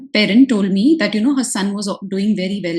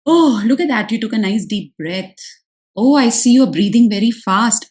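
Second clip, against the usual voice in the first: gentle parallel talk. Shown as a demonstration. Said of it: "Do the parallel talk".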